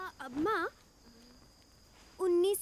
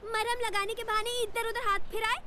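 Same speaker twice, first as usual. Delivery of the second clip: jealous scolding; 4 semitones higher than usual. Acted. Jealous woman scolds a girl.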